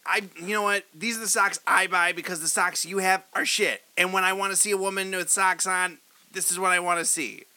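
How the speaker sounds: lightly voiced fast-talking Tarantino; a hint of Quentin Tarantino; Tarantino impression. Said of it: "really good Tarantino".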